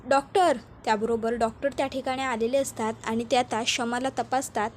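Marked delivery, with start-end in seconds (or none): 0.1-0.6 calls out for the doctor, a bit louder; mild mock yell for the doctor; retold shout. Husband calls for the doctor, mild retold shout. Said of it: "Rameshwar जोरात ओरडतो".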